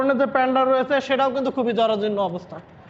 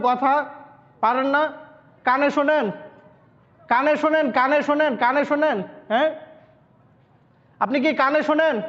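to someone hard of hearing. Real, not acted. Testing if the man can hear.

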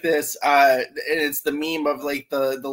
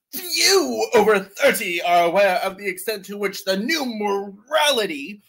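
put-on old author's internal dialogue. Reading an old man's book to co-hosts, theatrically solemn. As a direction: savor key words with mock gravity. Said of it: "My voice is his internal dialogue".

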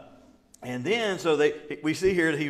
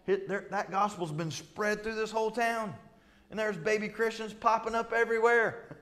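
higher, complaining Pharisee voice rising as it goes; pitched-up grumble that climbs at the end; mad Pharisees; 5 semitones higher than usual. Retold or imitated. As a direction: play the indignant leaders whining.

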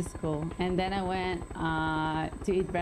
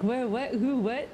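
higher, playful string of baffled questions; mock confusion; 6 semitones higher than usual. Imitating the confused teammate, mock confusion. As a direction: imitate someone totally lost, pitched up.

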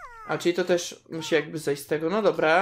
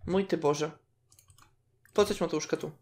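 ordinary talk

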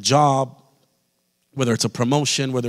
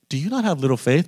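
calm questioning, rising at the end; 3 semitones higher than usual. Retold or imitated. Preacher imitating Jesus asking the disciples, calm. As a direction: ask it as a mild question. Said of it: "it sounds kind of calm".

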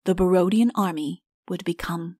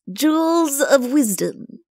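slow, higher, weighty proverb voice; sententious; 5 semitones higher, slower than usual. A narrator's reading. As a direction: pronounce it like a sage. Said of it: "said the chancellor sententiously".

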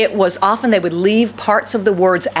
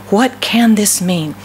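slow, puzzled question in one connected phrase; perplexed repeat; slower than usual. Acted. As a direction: ask it slowly, joined up, mildly amazed. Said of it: "stood there amazed and perplexed".

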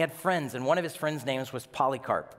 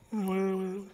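higher, louder, laughing aside; mock laughing; 5 semitones higher, 3 dB louder, slower than usual. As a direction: joke with the crowd. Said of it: "We're like".

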